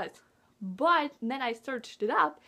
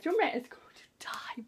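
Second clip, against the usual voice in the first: fearful whisper; 4 semitones higher than usual. Retold or imitated. Retold dread during spear scene.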